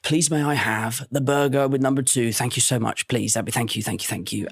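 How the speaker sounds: low, tailing-off stream of thanks; polite English customer. Acted. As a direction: order like an over-polite English diner. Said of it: "In England, it says".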